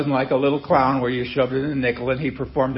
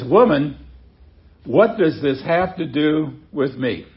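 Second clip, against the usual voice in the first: brisk, abrupt rebuke at usual pace. Shown as a demonstration. Jesus answers his mother, mildly abrupt. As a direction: clip it off like a curt brush-off. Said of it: "seems a little abrupt as well".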